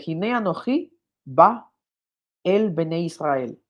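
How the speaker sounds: slow, careful Hebrew recitation; Hebrew reading. Shown as a demonstration. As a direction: read the Hebrew slowly, word by word. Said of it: "cuando dice".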